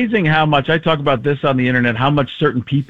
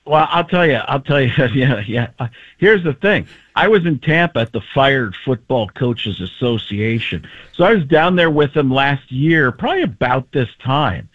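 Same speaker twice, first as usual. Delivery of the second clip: lightly voiced rambling coach; John Gruden. Comedian answering as the coach, light impression. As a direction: start up folksy, pitch hopping about. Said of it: "How would he do play-by-play?".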